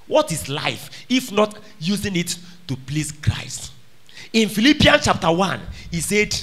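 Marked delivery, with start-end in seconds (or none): 0.1-3.7 slow, unvoiced whisper. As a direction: drop to a hushed whisper to draw them in. Sudden hushed line mid sermon.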